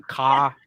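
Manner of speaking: KA said with no R on the end; dropped R. Shown as a demonstration. Host showing how they can't pronounce an R, "ka" without the R. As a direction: drop the R in "ka". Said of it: "I can't pronounce an R".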